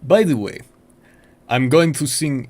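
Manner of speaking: Russian accent. Shown as a demonstration. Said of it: "Russian accent".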